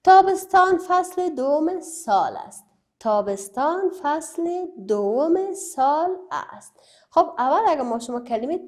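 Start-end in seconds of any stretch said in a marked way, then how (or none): 0.0-2.6 reading from the book. Shown as a demonstration. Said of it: "در کتابتان نوشته است تابستان". 3.0-6.7 slow, spaced reading for the class. Shown as a demonstration. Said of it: "در کتابتان نوشته است تابستان".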